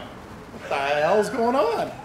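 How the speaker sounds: slow, drawn-out incredulous question, rising high; mock bafflement. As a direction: imitate stunned onlookers, stretching it out. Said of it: "looked and kinda went".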